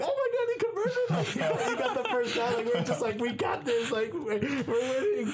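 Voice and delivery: very high, squeaky celebration; retold jubilation. Broadcaster retelling the hug with co-host, high mock jubilation.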